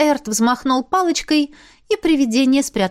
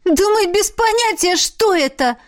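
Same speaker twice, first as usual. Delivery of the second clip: much higher, despairing exclamation; desperate cry; 10 semitones higher than usual. A narrator's reading. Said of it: "с отчаянием воскликнула она". (с отчаянием)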